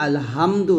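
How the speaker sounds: আলহামদু with a light, unpressed h. Shown as a demonstration. Teacher showing what we wrongly do, unpressed ha. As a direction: say আলহামদু without pressing the h. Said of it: "হা চাপ না দিয়ে".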